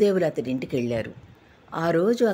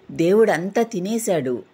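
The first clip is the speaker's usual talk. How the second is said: happily; 4 semitones higher, 4 dB louder than usual. Acted. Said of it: "సంతోషంగా చెప్పాడు".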